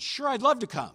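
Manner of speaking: a touch of eager Spurgeon; eager acceptance. Retold or imitated. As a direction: sound thrilled to be invited. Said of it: "And Spurgeon said".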